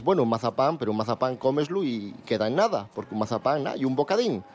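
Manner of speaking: mock listener voice. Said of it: "Diréis".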